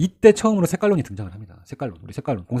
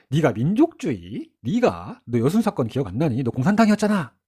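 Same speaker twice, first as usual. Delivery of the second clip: mocking Yun; slower than usual. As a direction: taunt him with disbelief. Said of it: "이렇게 얘기를 합니다". (비웃듯 따지는 말투)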